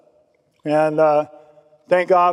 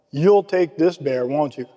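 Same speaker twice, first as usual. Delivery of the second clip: firm insistence. Retold or imitated. Sponsor handing him the bear, firm insistence. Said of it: "With a firm look like".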